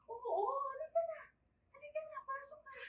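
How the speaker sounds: high-pitched, cajoling invitation; sweet coaxing. Acted. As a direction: coax the child in sweetly, voice up high. Yaya coaxes charge to come in. (malambing na pag-aaya)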